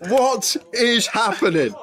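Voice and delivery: laughing. Real, not acted. Laughing at the run.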